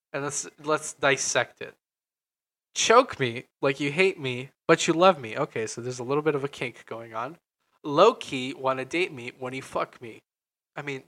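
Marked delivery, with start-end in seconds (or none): 2.7-10.2 talking while eating clementine; mouth full. Real, not acted. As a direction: speak around a bite of fruit. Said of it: "Sorry, I'm eating".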